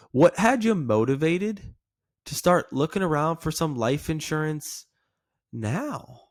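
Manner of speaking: inquisitive, lingering question; curious. Shown as a demonstration. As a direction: ask it with genuine interest, stretching the words. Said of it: "that's kinda what I'm looking for".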